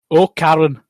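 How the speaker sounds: lightly voiced film husband; second character voice. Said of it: "do two different voices for this scene".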